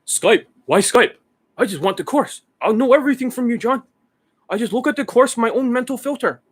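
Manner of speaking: high-pitched mock student whine; protesting student. Imitating students who balk at using Skype, high mock protest.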